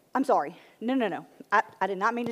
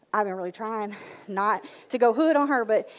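louder, heated rant about a coworker; sassy venting; 4 dB louder than usual. Acted. Woman venting to friend Lynn about her coworker, sassy and heated. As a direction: let the attitude build.

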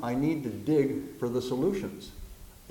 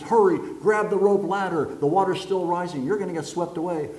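pilot shouting; 4 semitones higher, 5 dB louder than usual. Acted. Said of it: "Pilot says".

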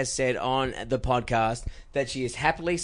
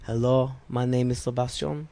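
bad French accent; 2 semitones lower than usual. Imitating Sebastian chatting up a woman in a bad French accent. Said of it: "The bad accent".

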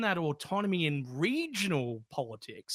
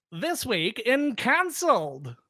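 fifty style; 6 semitones higher, much slower than usual. Shown as a demonstration. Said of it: "Shall I do it in fifty style for us?".

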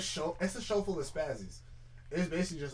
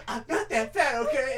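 mock defensive; 9 semitones higher, 6 dB louder than usual. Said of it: "It was like".

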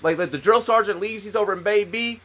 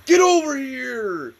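drawn-out eager holler, higher pitched; calling out; 8 semitones higher, 3 dB louder, slower than usual. Acted. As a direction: holler them over, stretching the words. Team eagerly calling over a felon.

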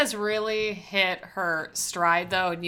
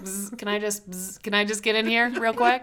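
buzzing pest voice. Retold or imitated. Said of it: "just there to be like".

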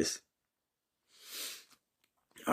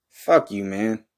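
angry outburst; 4 dB louder, slower than usual. Acted. Rejected by Dracula, lashes out.

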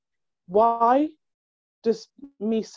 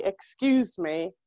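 slow, polite and neutral; polite excuse me; much slower than usual. Shown as a demonstration. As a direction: say it slowly and politely. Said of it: "You could just say".

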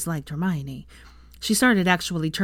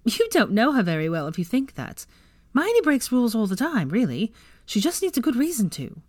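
laughing voice; 5 semitones higher than usual. Acted. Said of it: "said in a laughing voice".

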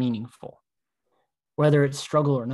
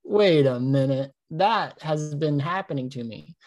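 slow realization. Retold or imitated.

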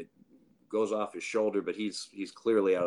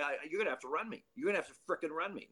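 demanding manager; 6 semitones higher, 5 dB quieter, faster than usual. Retold or imitated. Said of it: "He goes".

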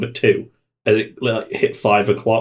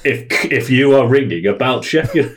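slow, halting amateur recording; fumbling recorded message; 3 semitones higher than usual. Retold or imitated. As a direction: stumble through a hold message. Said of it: "fumbling it as they're trying to say this message".

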